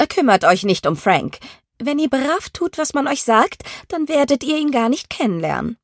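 cold threat, rising high; a strict headmistress warning; stern matron. Acted. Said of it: "in Schwarz gekleidete Frau".

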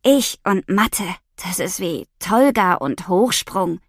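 slow, gloomy, funereal voice; grave voice. Acted. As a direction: speak as if at your own funeral. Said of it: "Mit Grabesstimme fährt sie fort".

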